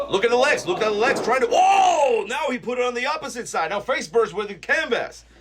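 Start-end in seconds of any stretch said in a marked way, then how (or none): 0.1-3.7 excited. Real, not acted. Commentator yelling at the action.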